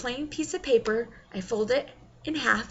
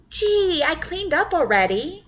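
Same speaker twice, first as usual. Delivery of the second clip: giddy; 7 semitones higher, 6 dB louder than usual. Acted. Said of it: "her giddiness tr-, trying its best not to spew out".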